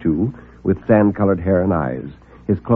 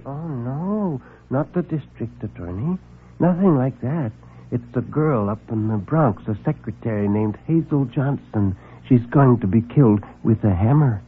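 a meek man afraid to speak up; timid little man; 2 semitones higher, 5 dB quieter than usual. Acted. Meek visitor nervously announces a murder.

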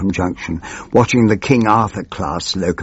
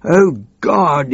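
a high mock wail; 7 semitones higher than usual. Snivelling minister in despair, a high mock wail. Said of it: "he wailed".

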